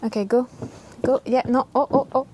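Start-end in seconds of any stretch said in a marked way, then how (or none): 1.7-2.3 high, loud frightened pleading; panicked yelp. Real, not acted. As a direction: squeal at the approaching spider. Spider moving toward her.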